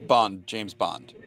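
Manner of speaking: slow, low suave spy delivery; James Bond line. Pretend. Host asks for his best Bond, smooth slow spy voice. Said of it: "give us your best".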